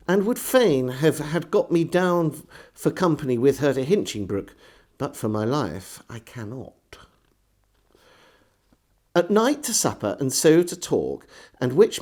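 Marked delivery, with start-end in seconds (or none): 5.0-6.8 whispered aside. Acted. Diarist confesses he cannot go, in a whisper. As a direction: drop to a breathy whisper.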